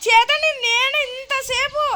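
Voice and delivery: high, loud, slow voice-changed reveal; voice changer voice. Real, not acted. Revealing himself to his friend through the voice changer, high and loud. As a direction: drag it out through a pitch-shifting voice changer. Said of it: "నేను voice change ఆఫ్ చేసేస్తా".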